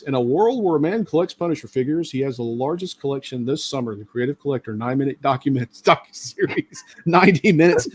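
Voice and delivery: light trailer announcer voice; lightly voiced movie trailer narrator. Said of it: "Um, movie announcer voice".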